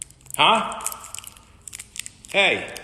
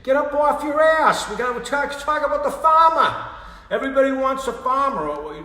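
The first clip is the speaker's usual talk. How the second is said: much higher, louder puppet rant; shrill dummy yelling at his partner; angry squeaky puppet; 14 semitones higher, 10 dB louder than usual. Acted. Puppet rants angrily in high voice.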